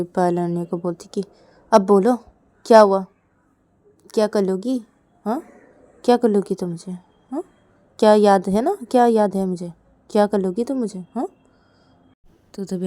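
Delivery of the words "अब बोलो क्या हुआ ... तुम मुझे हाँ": challenge. Acted. Sister challenging in bedroom.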